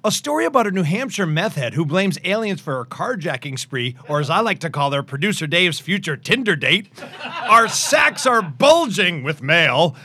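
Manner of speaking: big, excited show-teaser voice; dramatic reality show hype. Acted. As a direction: hype up the coming episode.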